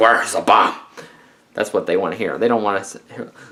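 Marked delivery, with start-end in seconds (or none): 0.0-0.7 put-on frustrated, growling voice with American accent. Imitating Jack Bauer demanding an answer: Jack Bauer frustrated growl. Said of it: "Jack Bauer growling in his American frustrated voice".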